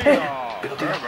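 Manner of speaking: ordinary delivery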